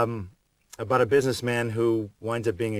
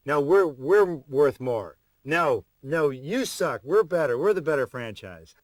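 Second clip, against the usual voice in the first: louder, higher, slow mock shouting of a squabbling lawyer; mock lawyer yelling; 4 semitones higher, 5 dB louder, slower than usual. Star mimics lawyers arguing over franchise worth, mock shouting. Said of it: "yelling at each other".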